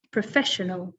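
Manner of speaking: "professional" as pruh-FESH-uh-nul; second-syllable stress. Shown as a demonstration. Teacher repeats it for learners, "professional" stressed on FESH. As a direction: put the weight on FESH in "professional". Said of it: "the stress is on the second syllable".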